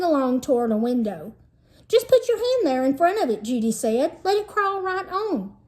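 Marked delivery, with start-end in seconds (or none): 1.9-3.4 higher, eager and excited; squeaky excited voice. A narrator's reading. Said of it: "Her voice was squeaky". 4.2-5.5 higher, eager and excited; squeaky excited voice. A narrator's reading. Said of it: "Her voice was squeaky".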